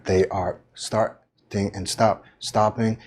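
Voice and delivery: halting starts and stops, repeating a word; choppy, broken-up phrasing; choppy delivery. Shown as a demonstration. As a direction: stumble on "stop, stopping". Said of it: "speaking in a choppy manner".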